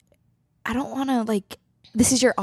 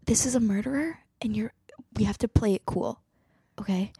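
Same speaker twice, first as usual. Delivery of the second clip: hushed whisper; 8 dB quieter than usual. Acted. Sidebar warning Carol about the murderer, whispered. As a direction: whisper so the murderer won't hear.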